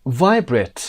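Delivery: VIBRATE punched on the first syllable, VI, then falling; American stress on VI. Shown as a demonstration. Teacher repeats American version, stress on VI in VIBRATE. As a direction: start VIBRATE loud on VI, American style. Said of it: "قسمت وای".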